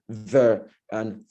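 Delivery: the voiced TH in "the", then a bare "th"; TH pronunciation demo. Shown as a demonstration. Grammarian teaching Nigerian speakers, TH in "the" and "th" pronounced carefully. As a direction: show the tongue-between-teeth sound in "the" and "th". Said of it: "pronouncing the T H word appropriately".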